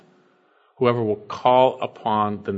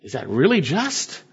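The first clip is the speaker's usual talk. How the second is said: indignant flesh; 5 semitones higher than usual. Retold or imitated. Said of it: "we go".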